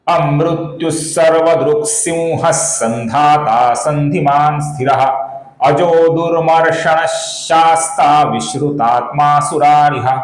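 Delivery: very slow, deliberate Sanskrit chant; full shloka recitation. Shown as a demonstration. Teacher reciting the complete verse for students. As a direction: recite the whole verse slowly and clearly. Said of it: "फिर से एक बार देखिए".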